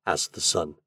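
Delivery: plain reading voice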